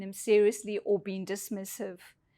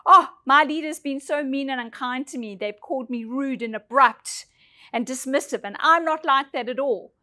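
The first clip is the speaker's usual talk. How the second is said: complaining employee; 2 semitones higher, 6 dB louder than usual. Retold or imitated. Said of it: "H R and say".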